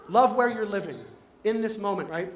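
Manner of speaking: normal talking voice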